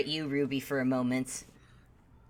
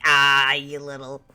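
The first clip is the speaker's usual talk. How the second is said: playful fondness; 3 semitones lower, 4 dB louder than usual. Acted. Man rustles Ruby's hair, fondly teasing. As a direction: gush affectionately over a cheeky kid. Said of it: "rustles your hair again".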